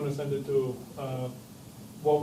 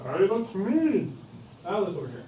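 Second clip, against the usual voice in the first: put-on Alice voice. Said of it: "I don't know if she speaks like that".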